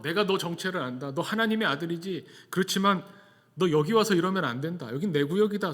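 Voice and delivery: mild mock yell of a demon; insistent, half-shouted challenge; retold demon yell. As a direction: raise the voice a little, demon defending its turf. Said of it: "소리 지르는 이 귀신을".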